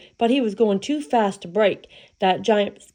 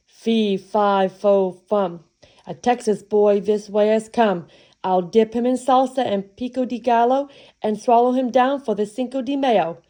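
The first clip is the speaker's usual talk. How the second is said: a louder, hammed-up giant's fee fi fo fum; lightly voiced hungry giant; 3 dB louder than usual. Giant sniffing out Jack, mock booming chant. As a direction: boom out the chant like a greedy giant.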